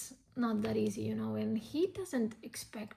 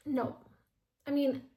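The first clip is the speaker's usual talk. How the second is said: ordinary talk, nothing marked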